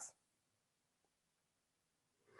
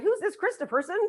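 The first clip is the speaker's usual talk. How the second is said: higher-pitched mock disbelief; sceptical spouse; 7 semitones higher than usual. Spouse hearing about the coach, sceptical. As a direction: question it like a doubtful partner. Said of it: "and like".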